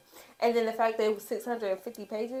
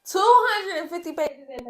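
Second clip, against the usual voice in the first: loud whispered, higher exclaim; airy stage whisper, pitched up; breathy excited whisper; 8 semitones higher, 7 dB louder than usual. Shown as a demonstration. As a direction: gasp out the page count in disbelief. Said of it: "repeated as breathy exclaim".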